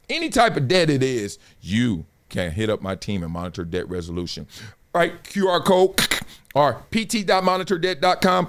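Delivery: upbeat sponsor read. Acted. Host reading a debt sponsor ad to his viewers, salesy. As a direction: sell the debt service to viewers.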